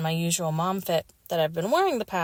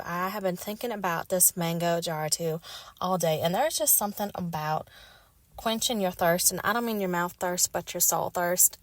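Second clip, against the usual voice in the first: attempted Southern accent. Re-enacting a TikTok skit about soda, attempted Southern accent. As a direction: play at a Southern accent, craving a drink. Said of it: "attempting to be Southern accent".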